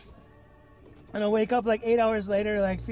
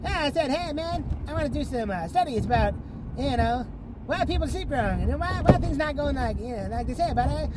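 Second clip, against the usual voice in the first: higher, broad mock Canadian accent; Canadian scientist; 5 semitones higher than usual. Canadian scientist explaining his credentials to a doubting patient, mock Canadian accent. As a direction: ramble along as a hammed-up Canadian. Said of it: "the, the Royal Canadian Ministry of Science".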